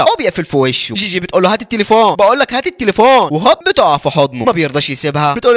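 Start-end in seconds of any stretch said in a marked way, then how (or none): 1.5-3.3 raised pitch, building insistence; insistent demand. Retold or imitated. Girl insisting the boy return her phone, cross. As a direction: demand it, then insist harder.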